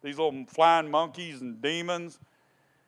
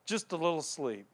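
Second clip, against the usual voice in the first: drowsy murmur; 2 semitones higher, 5 dB quieter than usual. Retold or imitated. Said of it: "she said".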